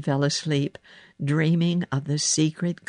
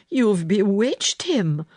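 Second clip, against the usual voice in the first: slow, loud, higher exclamation; gasped astonishment; 5 semitones higher, 5 dB louder, slower than usual. A narrator's reading. Maid to the girl who charmed the boy, gasping astonishment. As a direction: draw it out in amazement. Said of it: "Martha gasped".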